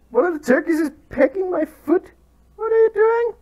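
loud, high, flustered shouting; real panicked telling-off; alarmed shout. Real, not acted. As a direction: yell it while being pecked. Turkey pecking his foot.

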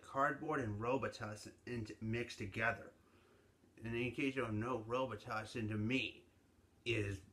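muffled behind fist; speaking through his hand. Real, not acted. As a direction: hand covering mouth. Seen 1: Fist pressed over mouth from 4.0s; chewing not clearly visible.

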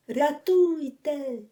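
a drowning man's slow frantic wail; narrated desperate shout for help; desperate cry for help. A narrator's reading. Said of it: "раптом отчайдушний крик".

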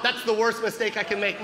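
normal talking voice

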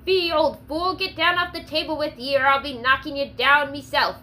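growled. Acted. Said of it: "growled the frontiersman".

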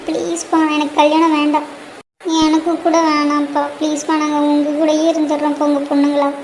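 mildly tearful, subdued begging; tearful pleading. Acted. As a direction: softly plead with a father. Tearful daughters beg not to marry. (லேசான அழுகையுடன் மென்மையாகக் கெஞ்சல்)

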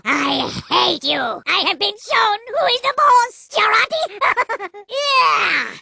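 suave, sneering French spy voice; a smug French assassin savouring every taunt; French-accented spy. Acted. TF2 Spy voice lines throughout.

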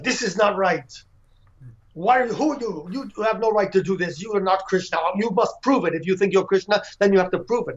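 retelling the skeptics' demand with a light edge; angry skeptics. Retold or imitated. Skeptics confront the girl in the village, mild mock anger. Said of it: "got angry and said".

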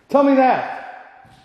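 high, slow, pleading command; desperate demand. Real, not acted. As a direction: drag it out, begging the ghost to answer. Demanding answer from spirit.

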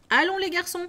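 rally the lads to stop work; cheery call. Acted. Fezziwig calling his apprentices, loud and hearty.

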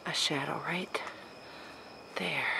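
whispering. Real, not acted. Sees a shadow.

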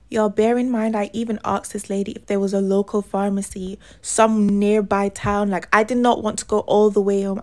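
loud, heated rant at the audience; loud exasperated venting. Real, not acted. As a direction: vent it loudly, exasperated. Ranting about going home.

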